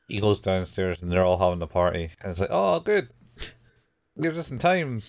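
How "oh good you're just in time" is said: high-pitched, put-on greeting voice; Mayuri. Girl greets friend arriving at the party, high imitation. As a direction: imitate her welcome in a raised voice. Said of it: "says Mayuri".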